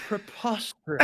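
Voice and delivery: British impression. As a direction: draw it out in an exaggerated British accent. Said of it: "some more British impression".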